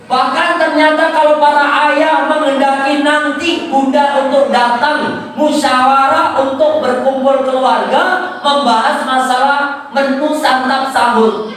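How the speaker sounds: emphatic public exhortation. Real, not acted. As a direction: address the parents like a preacher in full flow. Preaches with raised voice.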